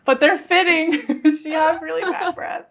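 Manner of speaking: giggling through the words; laughing. Real, not acted. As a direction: laugh it out, amused by the cat. Laughing about stinky nickname.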